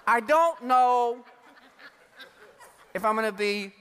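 a hint of a doubtful old man; old Abraham.

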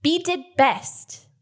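slow, simple talk as to an animal; reassuring bee-handler. Acted. Player praises the bee, slow simple reassurance. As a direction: praise it slowly, word by word.

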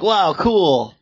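impressed wow. Retold or imitated. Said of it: "This was just me being like".

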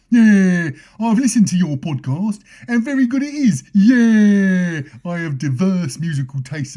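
high squeaky rat voice, cheeky; Roland Rat voice. Retold or imitated. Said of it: "read it out in Roland Rat's voice".

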